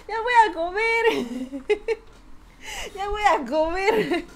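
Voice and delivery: high, slow, drawn-out singsong; singsong tease. Acted. Streamer teasing chat she's off to eat, high slow singsong.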